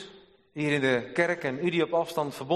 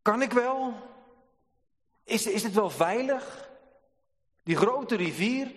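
hesitant doubt; 7 semitones higher than usual. Retold or imitated.

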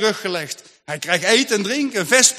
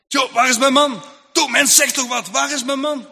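urgent anxious questioning; 4 semitones higher than usual. Acted. Mother urgently questions old woman.

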